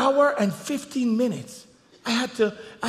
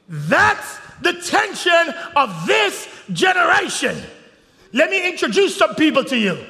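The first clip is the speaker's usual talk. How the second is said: loud, high preacher's shout; full-force preaching; 7 semitones higher, 6 dB louder, slower than usual. Acted. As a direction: build the sermon to a roar.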